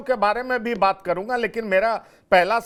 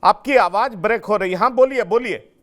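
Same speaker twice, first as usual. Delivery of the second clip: calling out; 2 semitones higher, 8 dB louder than usual. Real, not acted. Anchor calling over bad line.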